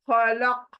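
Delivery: खलक ending on a stopped, throat-shaken qaf. Shown as a demonstration. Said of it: "काफ हलक में हिलना चाहिए".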